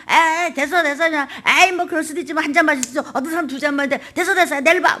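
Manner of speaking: put-on dismissive drunk brush-off. Drunk pastor brushing people off.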